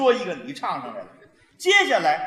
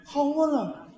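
Shanghai accent demo; 3 semitones higher, 3 dB quieter, slower than usual. Shown as a demonstration. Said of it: "它形容是".

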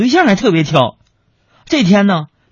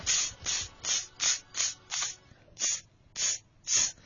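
unvoiced spraying hiss; 17 dB quieter, much slower than usual. Wife spraying mosquito repellent, hissing spray sound. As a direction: imitate a spray can hissing. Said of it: "就在那儿喷呐".

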